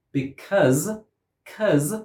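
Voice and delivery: "because" and "'cause" with a stressed short "uh", CUZ; stressed schwa. Shown as a demonstration. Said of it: "but it is stressed".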